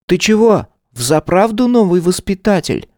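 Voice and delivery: put-on high boy voice, doubtful; suspicious kid. A narrator's reading. Little boy doubting the new caretaker, suspicious. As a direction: squint at him in words. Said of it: "с подозрением спросил пацан".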